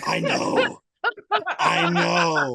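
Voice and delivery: very high, loud squeal of agreement; loud, shrieked agreement; emphatic agreement. Real, not acted. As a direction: burst out in high-pitched exasperation. Exasperated agreement over repeated question.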